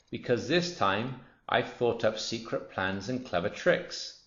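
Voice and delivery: lightly voiced, self-satisfied crocodile; scheming crocodile. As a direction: relish the scheme, drawing it out.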